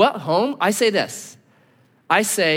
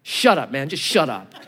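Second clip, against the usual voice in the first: laughing shut up; 6 semitones lower than usual. Retold or imitated. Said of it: "I was like".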